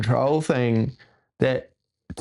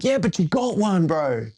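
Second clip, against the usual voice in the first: imitating friend; 6 semitones higher than usual. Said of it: "he's like".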